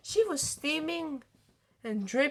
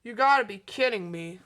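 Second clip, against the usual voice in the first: complaining; 3 semitones lower, 5 dB louder than usual. Acted. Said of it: "McQueen complained".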